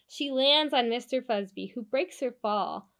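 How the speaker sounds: put-on lively storybook narration for kids; animated picture-book read-aloud; reading to children. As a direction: read it like bedtime story time.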